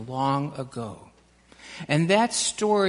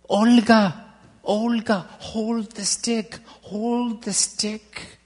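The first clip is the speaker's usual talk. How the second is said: first name called sharply louder, then slow drawn-out urging; lightly voiced rescuer coaxing a child in the water; rescuer calling out; 3 semitones higher, 3 dB louder, slower than usual. A narrator's reading. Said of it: "and the voice said".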